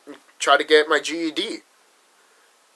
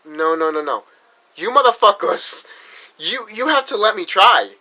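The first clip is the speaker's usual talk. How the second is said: angry retort; 4 semitones higher than usual. Retold or imitated. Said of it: "and I'm like".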